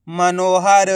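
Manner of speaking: मनोहर in even, separated syllables; sounded-out word. Shown as a demonstration. Teacher joining the letters, मनोहर sounded out. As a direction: blend मनोहर carefully, stretching the vowels. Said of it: "एक ही अक्षर का उच्चारण करके".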